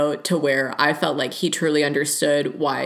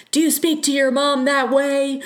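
pitched much higher, a sharp retort thrown back; mock yell back; 10 semitones higher, 3 dB louder than usual. Talking back to a catcaller on the street, in a higher mock retort. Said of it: "I would yell back something".

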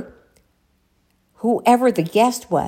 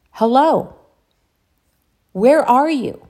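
higher mock calling, spaced out; imitated radio voice; 5 semitones higher, 4 dB louder than usual. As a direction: imitate a voice searching for someone. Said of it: "that voice kept on saying".

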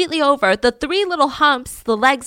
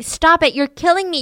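higher and louder, frantic; mock scream; 6 semitones higher, 4 dB louder than usual. Delirious wife screaming at her husband to stop, frantic. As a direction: push him away with your voice.

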